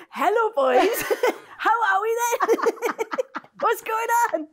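high, laughing put-on sexy voice; mock sexy voice. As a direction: giggle through a fake seductive hello. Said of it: "Do a sexy voice now".

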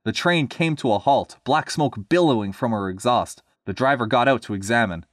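lively storybook reading; story narration. A narrator's reading. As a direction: read it to listeners with a measured lilt. Reads story aloud.

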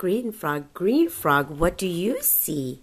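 slow sing-song book reading; reading to a toddler. Acted. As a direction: read it like a bedtime picture book.

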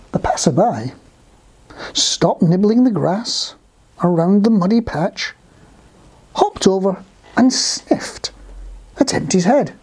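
measured storybook reading; unhurried, projected storytelling; story narration. A narrator's reading. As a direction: narrate clearly for young listeners, with pauses. Reads a story to children.

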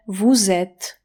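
"W Z" pronounced "voo-zet"; one joined word, "voo-zet"; voiced z liaison. Shown as a demonstration. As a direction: link the words with a buzzing z, "voo-zet". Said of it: "trzeba ją przeczytać jak z".

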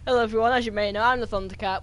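loud intro. Acted. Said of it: "He's gonna do his intro".

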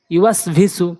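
syllables joined together; quick reading. Shown as a demonstration. Teacher showing learners the joined reading, quickly. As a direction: read it briskly as one word. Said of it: "দ্রুতটা উচ্চারণ করতে হবে".

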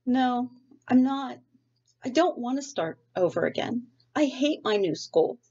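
put-on a sulky kid digging in her heels, stretched out; stubborn girl's protest. Sarah refusing to get out of bed for school, whiny and high.

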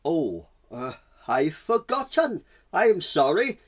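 lightly voiced apologetic gazelle, pitch lifting; sheepish gazelle. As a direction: own up with a touch of embarrassment. Gazelle admits forgetting the word.

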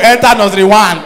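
loud brisk admission; brisk verdict. Retold or imitated. Registration auntie admitting the child, loud and brisk. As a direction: announce it like a stern auntie.

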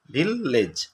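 "ভিললেজ" split as ভিল, gap, লেজ; teacher sounding out "ভিললেজ" in two beats; broken into syllables. Shown as a demonstration. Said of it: "ভাঙলে কি হবে?".

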